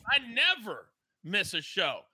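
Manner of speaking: numb-mouthed, woozy from the dentist; half of the face numb; groggy from anesthesia. Real, not acted. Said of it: "Half of my face is numb".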